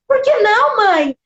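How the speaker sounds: high pleading "por que não"; indignant daughter asking; pleading question. Retold or imitated. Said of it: "E eu falei assim".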